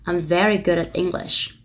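slow, careful teacher read of I'm very good at English; linked demo of I'm very good at English; slow model sentence. Shown as a demonstration. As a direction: model the whole sentence slowly. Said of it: "người ta có thể đọc".

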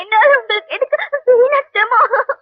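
slow, weepy plea; teary, halting protest; tearful plea. Acted. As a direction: cry while refusing help. Girl crying to the helper.

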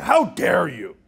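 mock outraged protest; mock indignation. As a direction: play the offended press with hammed-up indignation. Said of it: "they get really angry".

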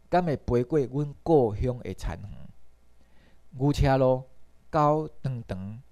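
measured verse reading with drawn-out line endings; unhurried Taiwanese poem reading; poem recitation. Acted. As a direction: recite it phrase by phrase, pausing between lines.

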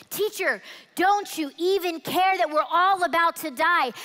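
a touch of fear, pressing and urgent; panicked plea. Acted. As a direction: beg him to wake up as the boat swamps. Disciples wake Jesus in storm.

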